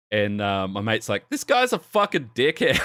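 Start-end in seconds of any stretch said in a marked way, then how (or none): 1.3-2.8 high-pitched mock shout through a laugh; retold drunken yelling. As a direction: imitate a hotheaded mate yelling, amused. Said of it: "my mate was yelling shit".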